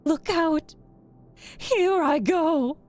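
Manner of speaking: high, loud, drawn-out wail; witch's dying cry. A narrator's reading. Melting witch warning the girl, final wailing cry. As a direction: cry out as you vanish.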